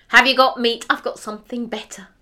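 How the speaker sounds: calls out loud and pleased; excited call. Acted. The hunter calls to his wife at the door, loud and eager. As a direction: shout the good news through the door.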